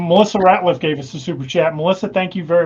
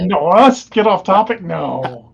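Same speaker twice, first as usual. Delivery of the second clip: mock disbelief; 4 dB louder, slower than usual. Mock denial of straying off topic.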